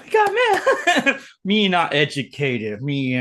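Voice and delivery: slow dumb caveman talk. Pretend. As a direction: play a grunting caveman, slowly. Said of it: "Me Neanderthal".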